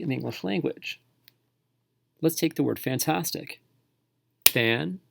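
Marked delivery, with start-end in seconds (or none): 4.5-5.0 Fan-tas-tic chopped into three clapped beats; clapped syllables. Shown as a demonstration. Teacher clapping out a word for students. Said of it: "Clap out any word slowly".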